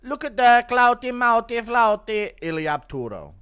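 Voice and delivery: hammed-up high loud mocking read; mocking announcer. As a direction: belt out the name like a mock ring announcer. Reading a donor name mockingly.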